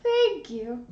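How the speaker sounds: lightly put-on movie line, drawn out; slow, sing-song thank-you; Princess Diaries quote. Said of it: "I love The Princess Diaries".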